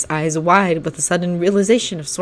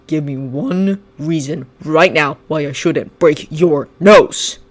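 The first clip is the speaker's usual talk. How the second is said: growl; slower than usual. Acted. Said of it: "Shinso growled".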